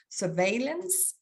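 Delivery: "surveillance" said slowly in a Danish accent; careful, effortful "surveillance" in a Danish accent. Real, not acted. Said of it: "sorry, that's my Danish accent".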